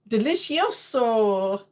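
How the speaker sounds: slow, stretched-out Italian flourish; mock Italian accent. Streamer guessing the Spanish for tasty, comes out mock Italian. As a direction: relish it in a put-on Italian accent. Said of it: "that sounds more like Italian".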